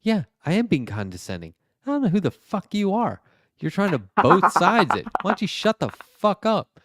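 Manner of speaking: high, loud and fast, snapping at the guest; retold angry outburst. Debater telling off a both-sides guest, furious and loud. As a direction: hammer him with it, no patience left. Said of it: "He goes".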